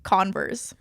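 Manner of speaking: Converse said flat and even; deadpan, no tune at all; monotone. Shown as a demonstration. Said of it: "like, a monotone way".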